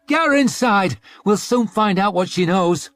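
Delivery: high, loud rioter's command; loud rough command; shouted order. A narrator's reading. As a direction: bark the order to the mob.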